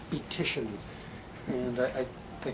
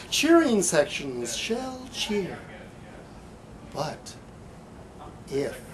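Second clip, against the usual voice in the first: emphatic spoken-word delivery, punchy phrases with pauses; poem performance; 2 semitones higher, 3 dB louder, much slower than usual. Acted. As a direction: perform it like a half-ironic slam poem. Poet performs slam-style poem.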